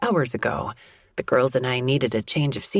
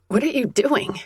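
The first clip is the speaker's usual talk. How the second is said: high startled cry; sudden alarmed question; 10 semitones higher than usual. Acted. Startled woman in bed.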